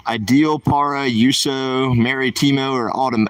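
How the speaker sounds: put-on slow, deliberate Spanish read in a joking accent; mock Spanish accent. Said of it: "That's not my accent".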